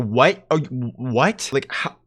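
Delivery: mildly hammed-up, drawn-out bewilderment; baffled disbelief. Host reacting to the guy's couple-of-hours claim, baffled disbelief.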